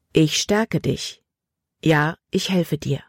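slow, steady reassurance; calm promise. Acted. Remembered God answering frightened Libby: slow calm. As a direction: say it firm and gentle.

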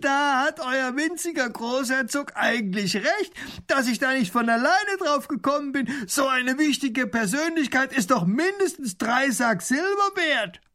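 cackling bandit voice; gloating robber. Acted. Robber laughs and agrees.

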